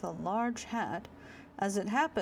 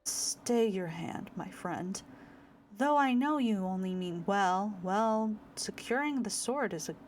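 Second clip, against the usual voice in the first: calm wise friend. Acted. Voices a calm ally.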